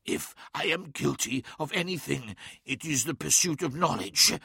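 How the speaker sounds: hissed through clenched teeth; strained hiss, teeth clenched; biting down on pain. Acted. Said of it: "hissed Magnus through clenched teeth".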